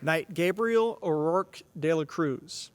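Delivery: slow, drawn-out formal name call; knighting ceremony. Real, not acted.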